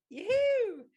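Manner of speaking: high, loud sing-song call; playful yoo-hoo. Retold or imitated. Calling out to the flying monkeys, high playful sing-song. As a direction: call out cheerfully, tempting fate. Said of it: "And I'm like".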